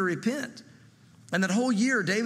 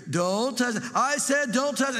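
put-on parent scolding a kid; 5 semitones higher than usual. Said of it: "It's like the kid".

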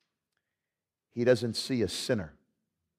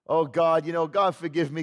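casual prayer; 3 dB louder than usual. Retold or imitated. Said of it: "we pray like that with God".

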